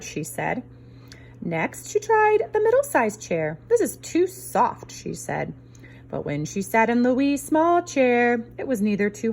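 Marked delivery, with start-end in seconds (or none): 3.7-4.9 Goldilocks voice. Acted. Goldilocks in chair.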